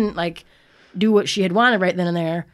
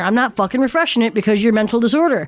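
mock ranting at cat; 3 semitones higher, faster than usual. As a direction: chew the cat out. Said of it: "I'm like".

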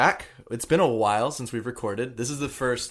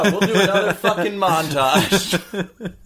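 laughing; 7 semitones higher, 8 dB louder, slower than usual. Real, not acted. Groaning about more montage.

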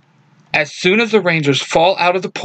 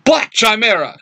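yell; 7 semitones higher than usual. A narrator's reading. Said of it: "Zach yells".

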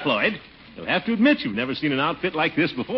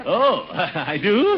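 flattered chuckle; 7 semitones higher, much slower than usual. Acted. Complimented on riding breeches.

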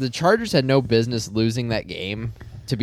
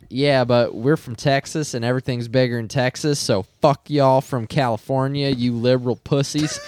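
put-on a light Texas accent, cocky; mock Texas accent; 3 semitones higher than usual. The Texans taunting the Chargers in a mock Texas accent. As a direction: play a brash Texan boasting in a Texas accent. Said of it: "That was a great accent".

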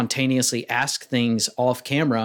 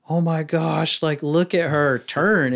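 slightly higher, drawn-out gushing; emotional bridesmaid; 3 semitones higher, slower than usual. Retold or imitated. Bridesmaid watching the bride almost done with makeup, emotional. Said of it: "bridesmaids are emotional".

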